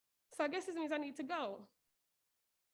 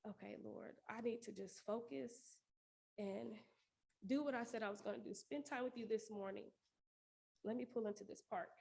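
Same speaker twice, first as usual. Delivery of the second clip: prayer. Real, not acted. Prays aloud alone in car.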